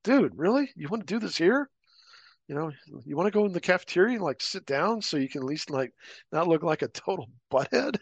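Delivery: high, disbelieving dude really; mocking, half-laughing put-down; incredulous retort. Narrator answering the guy in the hallway, incredulous.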